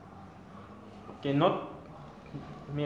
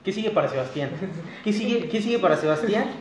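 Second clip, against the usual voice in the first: interviewer voice; 3 semitones higher than usual. Pretend. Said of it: "Ya parece pinche entrevista esto".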